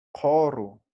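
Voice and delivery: "koru" with back k and open o, falling; careful model pronunciation. Shown as a demonstration. Teacher repeating the pronunciation for students, "koru" said carefully. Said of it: "la pronunciación va a ser así".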